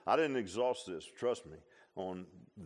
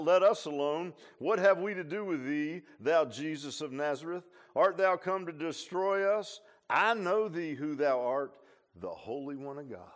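loud, raised mock cry of the demons; 3 semitones higher, 6 dB louder than usual. Preacher quoting demons crying out to Jesus, loud and raised. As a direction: call it out as the demons would. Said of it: "it's the demons crying out".

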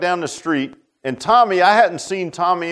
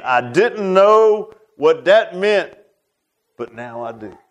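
very slow, drawn-out slurred imitation, fading at the end; slurred stroke speech; 2 semitones higher, slower than usual. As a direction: stretch each word like a stroke survivor. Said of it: "his speech is really slurred".

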